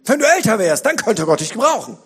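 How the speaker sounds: high, loud taunting voice; a high, sneering voice of doubt; mocking inner voice. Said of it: "die hören diese Stimme".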